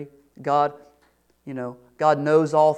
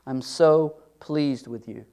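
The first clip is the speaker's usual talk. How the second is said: tender God voice; slower than usual. Acted.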